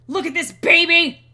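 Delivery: put-on high, loud cooing over a baby; mock delight. Showing a friend the baby scene, mock delighted gushing. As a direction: gush over the baby, hammed up.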